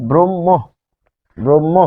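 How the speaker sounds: ব্রহ্ম as "brom-mo"; doubled m. Shown as a demonstration. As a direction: say the m twice in ব্রহ্ম. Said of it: "দুইবার উচ্চারিত হচ্ছে".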